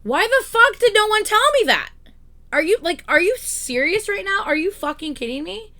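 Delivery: loud, high outraged yelling; furious shout. Retold or imitated. Ranting at Geek Squad, loud furious shout. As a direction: blast it out in disbelief.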